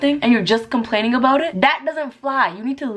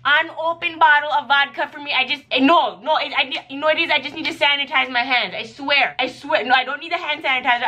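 desperate plea; 5 semitones higher than usual. Pretend. Stressed worker begging for vodka, mock desperation. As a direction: beg for vodka like you're losing it. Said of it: "I'm like".

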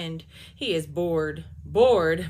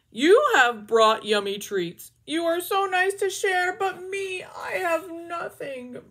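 slow, loud, whiny moaning; moaning sad bear; 9 semitones higher, 11 dB louder, slower than usual. Acted. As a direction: moan it out like a sulking bear. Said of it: "Bear sighs and he moans".

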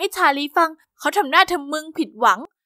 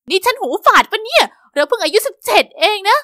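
disbelieving; 4 semitones higher, 4 dB louder than usual. Acted. Stunned by the proposal.

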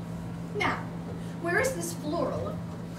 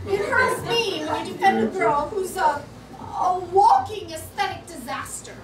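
angry; 4 semitones higher, 5 dB louder than usual. Acted. Heated quarrel continues.

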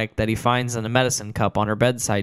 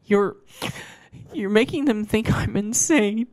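high, slow and pleading; Doctor Fleming's voice; 10 semitones higher than usual. Acted. Trapped patient pleading with Chris, high and slow. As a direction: beg in a high, frantic voice. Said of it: "she explains".

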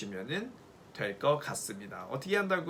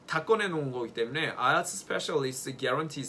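higher, louder and faster, proud; proud excitement; 4 semitones higher, 5 dB louder than usual. Real, not acted. Teacher proudly tells students her tips are guaranteed, excited. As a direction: sell the tip with excited pride.

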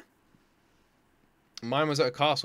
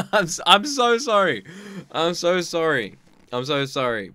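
laughing apology; 4 dB louder than usual. Real, not acted.

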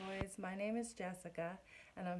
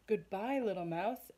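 louder quick farewell; hasty fox goodbye; 6 dB louder than usual. Acted. Fox flees.

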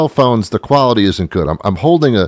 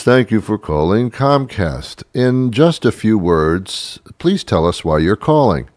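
robot phone menu; 2 semitones higher than usual. Retold or imitated. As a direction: read it like a recorded menu. Voicing the automated phone robot.

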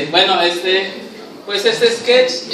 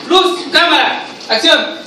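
director's call; 5 semitones higher, slower than usual. Acted. Director calls second take.

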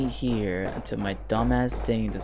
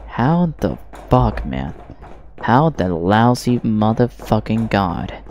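annoyed. Real, not acted. Raging at game.

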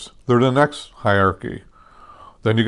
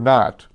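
not, firm and emphatic; stressed not. Shown as a demonstration. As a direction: punch the single word "not". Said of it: "I stress the word".

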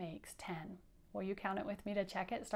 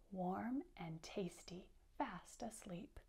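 softer and softer to a whisper; hushed whisper; 10 dB quieter, slower than usual. A narrator's reading. Teacher reading to kids, fading into a whisper. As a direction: whisper so the mice stay asleep. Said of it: "reading story to children".

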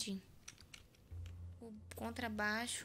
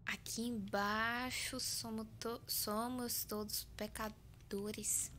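creepy slow reading; 4 dB quieter, much slower than usual. Real, not acted. Reading creepy in-game text.

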